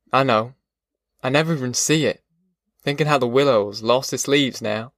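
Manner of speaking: understated weary country man; lightly voiced defeated father. Pa admitting to Ma he is no good, understated defeat. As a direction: lightly play a worn-out, homesick father.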